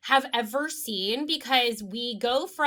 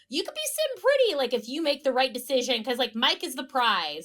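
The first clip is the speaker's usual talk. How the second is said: mocking smug guy. Mocking Mike's pitch.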